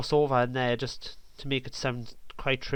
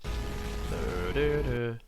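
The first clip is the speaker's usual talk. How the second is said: slow burr; 5 dB quieter, much slower than usual. Shown as a demonstration. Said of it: "it's gonna be like a slow burr".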